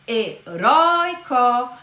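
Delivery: "heróico" very slowly, he / RÓI / co, middle strong; drawn-out teacherly "heróico", weight on second-last syllable; stress on middle syllable. Shown as a demonstration. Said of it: "veja que a sílaba tônica agora é a paroxítona".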